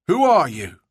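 sharp demanding question. Acted. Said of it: "he demanded".

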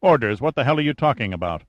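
shocked scientist blurting back, rushing the question; blurted. Acted. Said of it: "Then Hopper blurted".

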